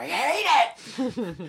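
sudden, very high, blurted, acted-out shout. Retelling a story, the speaker acts out a woman's reply, retelling a shout. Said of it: "She just shouts".

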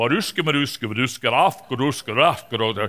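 Russian film-dubbing voice-over style gibberish. Showing the voice their videos get when dubbed into Russian, Russian voice-over voice. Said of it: "my voice when they voice over the videos into Russian".

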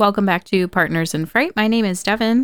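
airline cabin announcement voice, flight attendant style. Opening a podcast episode, the host introduces the show in a flight attendant voice. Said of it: "I sounded like a flight attendant".

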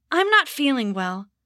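halting, stammered delivery. A boy, scolded by his mother and father, stammers out his answer. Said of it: "he stammered out".

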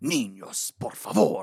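laid-on creepy, spooky announcer voice. Imitating the Haunted Mansion Spanish guy: creepy Haunted Mansion Spanish guy voice. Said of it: "trying to be creepy".

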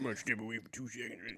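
put-on very soft, murmured old man voice. Mocking another speaker who is stepping away: mocking Professor Klump voice. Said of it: "Nigga sound like Professor Clump".

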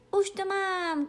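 high-pitched joyful cry of delight. The little dog, having thought it over, shouts to the kitten joyfully. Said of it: "křičela radostně".

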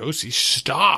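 mock super dad voice, stern, firm, commanding. Retelling stopping Josie from walking into an intersection: retelling super dad voice. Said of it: "I had to use my super dad voice".

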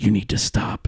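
mock threatening whisper. Speaker quotes someone leaning up to stop them hitting their brother, mock threatening whisper. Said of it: "like whisper threatening me".

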